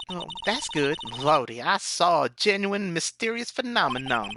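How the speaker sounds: hammed-up southern gal, amazed; cartoonish southern wonder; cringy southern accent. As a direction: marvel in a put-on southern twang. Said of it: "best cringy southern accent".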